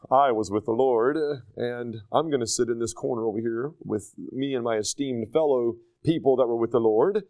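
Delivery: low, mock-smug churchgoer voice; puffed-up pride, voiced low and smug; proud boaster. Preacher mocking a proud believer, low and smug. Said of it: "to kinda make a pride thing out of it".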